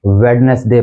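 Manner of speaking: वेडनेसडे with the D sounded, wed-nes-day; common mispronunciation. Shown as a demonstration. Teacher showing students the common mistake, वेडनेसडे as wed-nes-day. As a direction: say वेडनेसडे in three parts, as spelt. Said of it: "इसको हम commonly".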